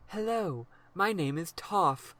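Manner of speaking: slow, overacted cartoon dub voice; eighties anime dub voice. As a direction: ham it up like an old anime dub. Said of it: "like, eighties American anime dub voice".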